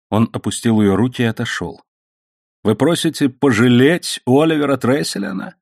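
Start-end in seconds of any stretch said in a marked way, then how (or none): 2.6-5.5 rising, higher-pitched outrage; indignant exclamation. A narrator's reading. Man refuses mercy for a renegade, outraged exclamation. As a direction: build from incredulous question to outburst. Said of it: "воскликнул он".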